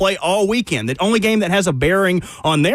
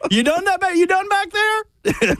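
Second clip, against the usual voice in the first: high, slow mock biker drawl; imitating biker dad; 12 semitones higher, slower than usual. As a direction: drag it out like the dad. Imitating the dad's question.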